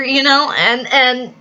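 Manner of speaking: ordinary talk, nothing marked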